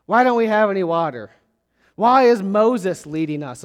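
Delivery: mildly acted grumbling complaint. Israelites to Moses after leaving Egypt, mock grumbling. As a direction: imitate a griping crowd, in insistent questions. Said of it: "They grumbled".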